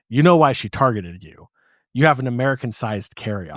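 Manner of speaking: mild imitation of a booming German American counter clerk; German American accent. German American accent, a counter clerk explaining to a traveler. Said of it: "in the best German American accent I have ever heard".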